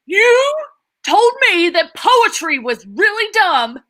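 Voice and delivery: loud, furious outburst; rage. Acted. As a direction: blow up at him in rage.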